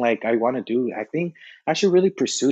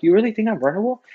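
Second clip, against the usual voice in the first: higher, quick mock-bashful question; flattered disbelief; 7 semitones higher, faster than usual. Retelling his reply to a coworker, flattered disbelief. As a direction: ask as if flattered and surprised. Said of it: "I was like".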